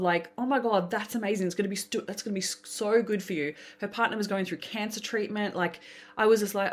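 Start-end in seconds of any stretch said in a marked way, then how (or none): 0.4-3.5 lightly raised, heartfelt "so good for you"; genuinely glad for her; sincere joy. Retold or imitated. Celebrating friend's win, sincere and glad. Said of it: "so happy for her in every ounce".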